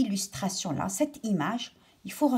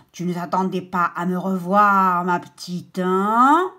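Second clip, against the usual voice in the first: menacing villain voice, louder; terrible voice; 7 dB louder than usual. Acted. Lifeguard menacing the girl, louder, in a wicked voice. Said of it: "il a parlé avec une voix terrible".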